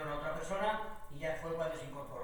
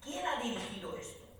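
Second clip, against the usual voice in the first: mock indignant demand, pitched up; 5 semitones higher than usual. Channel executives calling about the director, mildly indignant. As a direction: imitate an outraged client demanding answers. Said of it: "llaman de Telecinco indignados".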